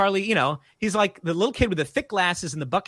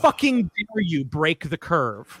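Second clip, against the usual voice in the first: slow, mock-indignant glare in words; retold seething resentment; slower than usual. Other kids silently cursing him, slow mock fury. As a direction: space out each word in mock outrage. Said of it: "I get the Luigi death stare".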